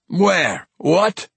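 sudden high alarmed bark; startled. Acted. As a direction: jolt awake, alarmed and confused. Dwarf jolts awake in alarm.

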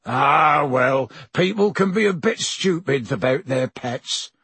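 wise Hagrid. Acted. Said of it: "said Hagrid wisely".

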